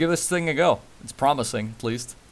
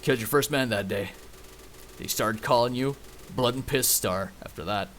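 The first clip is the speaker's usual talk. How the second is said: put-on Western accent; 5 dB quieter than usual. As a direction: tell it as a cowboy legend, in accent. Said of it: "I can keep doing the accent".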